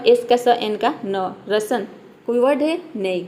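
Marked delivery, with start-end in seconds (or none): 0.1-1.3 each letter and its sound, "एस का स, एन का न", said slowly; teacher sounding letters slowly; letter sounds spelled out. Shown as a demonstration. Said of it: "आर का र".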